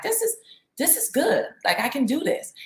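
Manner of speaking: imitating her daughter. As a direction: play the six-year-old, happily at ease in the pool. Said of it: "So she's like".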